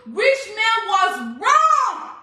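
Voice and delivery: slow, loud, drawn-out declaration; preaching at the crowd; emphatic shout. Real, not acted. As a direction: hammer it home slowly. Scolding rich man's critics.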